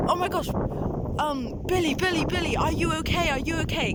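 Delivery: a hint of fake worry, mocking him; mocking stepbrother. Mimicking the evil stepbrother's fake concern, mildly mocking.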